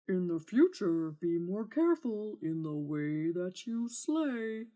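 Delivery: lightly voiced dragon warning; a touch of a scolding beast; lecturing dragon. Dragon to the knight, mild parting warning.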